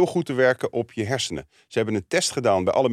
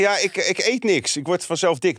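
mocking; 6 semitones higher than usual. Mocking what people claim.

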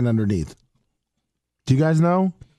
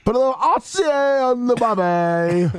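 high, put-on Australian voice; Australian accent; 9 semitones higher than usual. Showing he can do it Australian too, put-on Australian accent. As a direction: ham it up as an Australian. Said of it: "can do it Australian too".

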